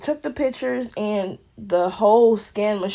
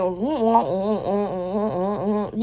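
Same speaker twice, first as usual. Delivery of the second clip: muffled mumbling imitation; slower than usual. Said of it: "it sounded like all she was saying".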